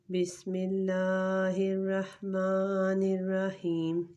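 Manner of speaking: بسم اللہ recited slowly in a chanting voice; slow recitation. Shown as a demonstration. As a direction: intone it slowly and reverently. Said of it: "تو شروع کرتے ہیں".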